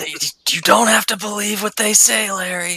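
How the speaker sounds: shouting. Shouting encouragement across the deck to a mocked crewmate: shouting. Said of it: "and I shout at him".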